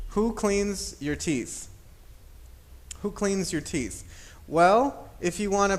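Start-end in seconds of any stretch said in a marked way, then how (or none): 0.1-1.7 slow question. Shown as a demonstration. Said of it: "if I think about this question".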